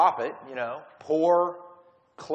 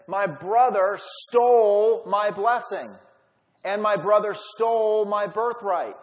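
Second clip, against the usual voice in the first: slow, louder, wounded protest over every word; aggrieved complaint; 3 semitones higher, 5 dB louder, slower than usual. Retold or imitated. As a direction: lay out the injustice heavily, slowly. Esau complains to his father.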